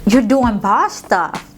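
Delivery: calm, loving praise to yourself; tender affirmation. Retold or imitated. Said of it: "I say things like".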